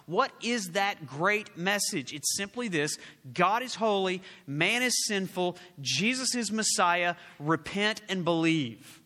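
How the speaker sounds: slow, emphatic proclamation; preaching proclamation. Acted. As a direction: land each phrase like a creed. Proclaims the gospel message.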